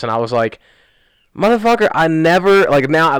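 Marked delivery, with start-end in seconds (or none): 1.4-2.6 getting mean. Retold or imitated. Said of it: "now I started to get mean".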